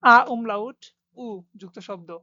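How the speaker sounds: a teacher heading a new section, drawn out; slow, emphatic section title; slow announcement. Shown as a demonstration. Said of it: "teacher announces section slowly".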